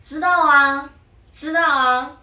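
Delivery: clipped quick casual 知道啊, like chewing; said fast and casual. Shown as a demonstration. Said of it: "we say it so fast".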